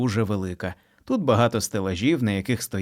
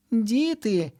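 mothers shouting; 12 semitones higher than usual. A narrator's reading. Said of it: "кричать обидві мами".

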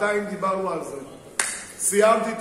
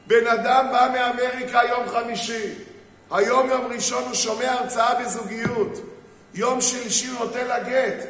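louder, higher preaching build; rising fervour; 4 semitones higher, 5 dB louder than usual. Acted. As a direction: drive the story to its climax.

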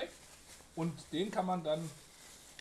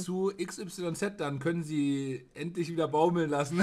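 ad announcer; 4 dB louder than usual. Pretend. Mock advertising slogan.

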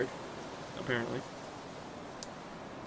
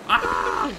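imitated crying wail; 8 semitones higher, 6 dB louder than usual. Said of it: "just go to the ... part of crying".

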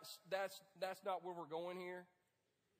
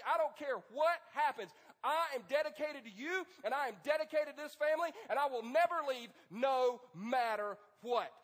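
fervent vow; 2 semitones higher, 7 dB louder than usual. Acted. Husband vowing loyalty to his wife, passionate and loud. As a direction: declare it like a husband swearing devotion. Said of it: "look her in the eye and say".

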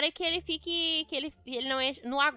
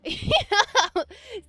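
giggle; 7 semitones higher, 6 dB louder than usual. Real, not acted. Laughing at the offer.

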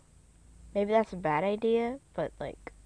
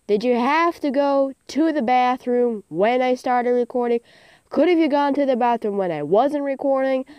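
annoyed scolding; 4 semitones higher, 4 dB louder than usual. Real, not acted. Scolding the cat mid-recording.

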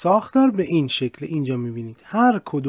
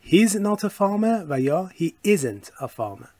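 slow contracted model; 4 semitones higher, much slower than usual. Shown as a demonstration.

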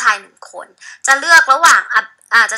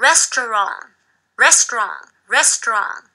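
restaurant said slowly, syllable by syllable; slow model word; much slower than usual. Shown as a demonstration. Teacher repeats the word slowly for students to copy. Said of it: "คำว่าร้านอาหารอีกที".

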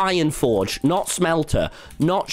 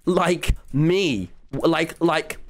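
drawn-out "like... me"; mock the trend with a stretched "me"; mimicked LA meme-speak; much slower than usual. Streamer mocks how people in LA talk, drawn-out mimicry. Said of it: "they just go".

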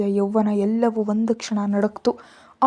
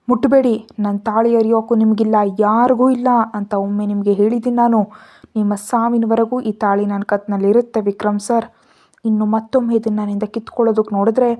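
firm, louder warning, speeding at the end; harsh defiance; 4 dB louder than usual. Acted. Deeksha warning Vikram off her wedding chain, harsh and defiant. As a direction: stand your ground and threaten him. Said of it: "ಅವಳ ಧ್ವನಿ ಸ್ವಲ್ಪ ಕಠೋರವಾಗಿತ್ತು".

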